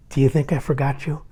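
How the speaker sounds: softly voiced, as if whispering a secret; retold whisper. Uncle leaning over to a boy near tears, retold whisper. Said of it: "he whispers in my ear".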